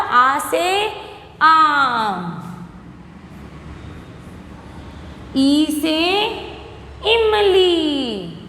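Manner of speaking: slow, drawn-out letter-and-word drill; alphabet recitation. Shown as a demonstration. Teacher drilling young pupils in Hindi vowels, slow recitation. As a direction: stretch each vowel for a class to repeat.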